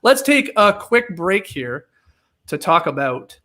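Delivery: hammed-up sports ad read. Host hypes fantasy football sponsor to listeners, theatrical ad read. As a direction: sell it like a booming football promo.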